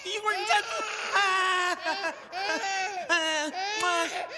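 put-on high, repetitive hushing of a baby; flustered baby-soothing. Flustered man hushing a crying baby.

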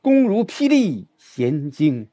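霹雳 hit, slow recital; slow, punch 霹雳; stress on 霹雳. Shown as a demonstration. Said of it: "这霹雳". (重读“霹雳”，放慢)

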